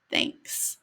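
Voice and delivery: soft whisper, leaning close; whispered, shy gratitude; whispered thanks. Acted. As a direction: breathe a secret thank-you to a friend. Friend leans forward, says thanks.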